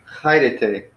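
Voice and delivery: "Hi day" as Greek "KHAI-reh-tay"; Greek plural greeting. Shown as a demonstration. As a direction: demonstrate "Hi day" with a kh start and an added plural syllable. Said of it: "is the way that would go".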